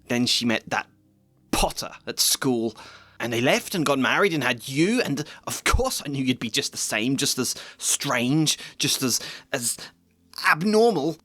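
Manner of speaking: a resentful aunt ranting; bitter Petunia. Acted. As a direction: let the resentment spill over. Petunia's rant continues.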